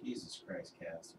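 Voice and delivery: quiet, pained voice with a headache. Real, not acted. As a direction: speak softly, head pounding. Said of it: "I apologize if I'm quiet. My head is killing me".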